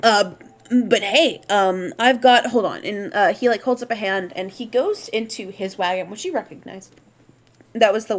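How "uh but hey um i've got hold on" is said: put-on light accent. NPC telling the party they are short on time, understated accent. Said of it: "he's like".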